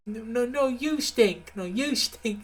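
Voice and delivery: put-on childish bickering. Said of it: "two children bickering".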